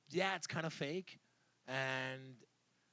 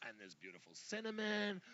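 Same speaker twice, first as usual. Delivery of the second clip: mock TV chef; 5 semitones higher, 4 dB quieter than usual. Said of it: "I'm like".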